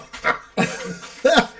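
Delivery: high breathy wheeze of laughter; helpless wheezing laughter. Real, not acted. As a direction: cracks up into a silent wheeze.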